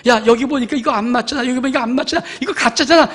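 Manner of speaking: a hint of a loud scoffing doubter; a hint of a scoffer crying fake; mock skeptic. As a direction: jeer it like a mocking unbeliever. Voicing skeptics finding errors.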